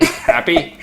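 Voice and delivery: airy high mocking question; sarcastic breathy "happy". Real, not acted. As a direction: toss it off sarcastically. Teasing reply to a nagging question.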